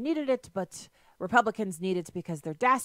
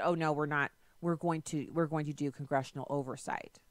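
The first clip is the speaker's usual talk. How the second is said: mock calm reply; 4 semitones lower, 4 dB quieter than usual. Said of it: "And he said".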